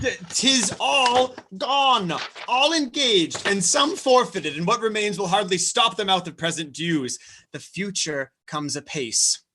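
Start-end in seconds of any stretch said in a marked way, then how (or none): 0.0-6.3 pleading, high-pitched dismay; anguished. Acted. Steward breaking news of ruin to his lord, anguished. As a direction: draw out the bad news, voice raised high.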